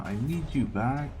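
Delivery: ordinary delivery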